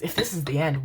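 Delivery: wavering imitation of a grim line; exaggerated doom-laden tune; mock grim. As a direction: mimic your own ominous delivery. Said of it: "That was grim as fuck".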